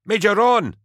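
very high, loud yell of the name. A narrator's reading. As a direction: shout across the firefight. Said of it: "Kafran yelled".

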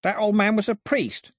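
high-pitched alarm; rattled, voice jumping high; panicky. A narrator's reading. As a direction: blurt it in a sudden panic. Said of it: "looking panicky".

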